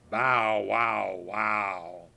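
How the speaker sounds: loud barking woofs; dog bark. Acted. Grandpa playing the dog in the poem, loud barks. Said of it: "And he said".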